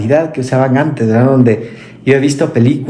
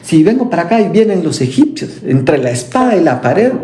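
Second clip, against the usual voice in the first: higher-pitched, hurried desperate plea; desperate widow; 5 semitones higher than usual. Retold or imitated. Widow pleading to the Lord, mock desperation. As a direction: cry out that there's no way out. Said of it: "donde ella dijo".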